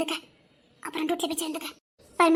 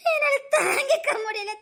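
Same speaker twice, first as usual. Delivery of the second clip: crying; 4 semitones higher than usual. Acted. Wife crying about hungry husband.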